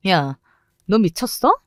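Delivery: shocked angry outburst. Acted. Rival yelling at the woman who splashed her with juice, shocked. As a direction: react as if juice just hit your face.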